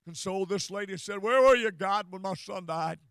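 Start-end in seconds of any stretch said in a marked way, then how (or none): 1.2-3.0 loud first words, then dropping to usual; upset prayer. Retold or imitated. Bereaved lady questioning God, upset. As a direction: imitate a mother's outcry briefly. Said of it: "She was very upset".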